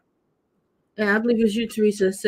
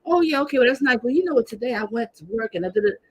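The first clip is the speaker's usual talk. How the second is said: higher, brushing-off narcissist voice; dismissive narcissist; 3 semitones higher, faster than usual. Retold or imitated. Streamer mocks a narcissist who interrupts, higher dismissive voice. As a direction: cut in and wave the news away. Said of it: "they'll stop you mid-sentence and say".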